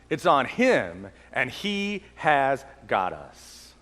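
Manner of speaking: calm a worried friend, slowly; reassuring Jesus. Retold or imitated. Jesus reassuring his followers, gentle and slow. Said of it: "that is what Jesus says to us".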